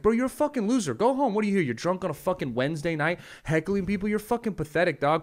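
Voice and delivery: high, rising retold yell; yelling at heckler. Comedian retelling telling off a drunk heckler, high yell. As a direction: tear into him, voice climbing.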